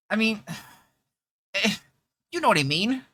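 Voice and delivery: put-on high, sighing girlish voice; Chloe voice. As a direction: stay in the squeaky girl voice while flustered. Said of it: "a Chloe voice".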